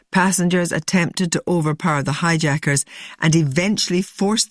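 measured scripted news narration; documentary narration. A narrator's reading. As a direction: read it as a sober documentary link. Presenter reads scripted narration.

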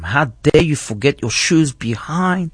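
storyteller's restrained version of an upset scolding; retold scolding shout. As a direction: imitate a big sister telling off her brother. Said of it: "she started shouting at him".

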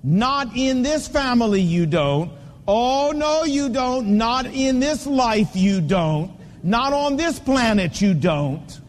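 firm, slow, emphatic scolding; mock-stern father refusing to budge. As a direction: lay down the law to a defiant child, each phrase deliberate. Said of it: "got in their face and said".

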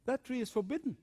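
lightly voiced objection; protesting Eve. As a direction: push back as an earnest Eve. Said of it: "Eve says".

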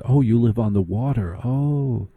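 a light imitation of a Connecticut socialite; lightly voiced snob, impressed "Oh"; mock preppy gush. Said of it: "that is a key phrase in Connecticut".

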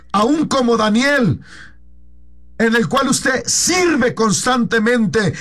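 high, proclaiming preacher's call to everyone; fervent preaching. Acted. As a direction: proclaim it to the whole congregation. Preaching at full force. (predicación ferviente y proclamada a toda la congregación)

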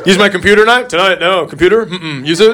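repeats each question word with a rising, dodging tone; mock denying kid. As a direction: play a caught twelve-year-old stalling. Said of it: "here's how a twelve-year-old boy denies something".

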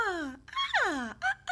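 high-pitched cooing ah sounds; high baby sounds. Shown as a demonstration. Therapist demonstrating newborn vocal sounds, high cooing. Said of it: "they're quite high in pitch".

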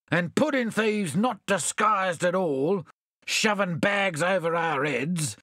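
hammed-up indignation, lightly voiced; mildly enraged. Bill complaining to his friends, mildly enraged. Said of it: "cried Bill, enraged".

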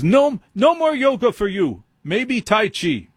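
high-pitched mock German verdict; fake German accent. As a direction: lay down the law as a comic German doctor. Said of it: "he looks at me and he says".

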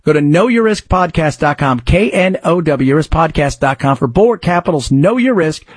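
brisk host-read sponsor pitch; upbeat promotional read. Acted. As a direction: sell it like a radio ad.

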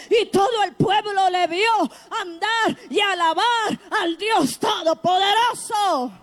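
impassioned Pentecostal-style shout; full-force preaching. Real, not acted.

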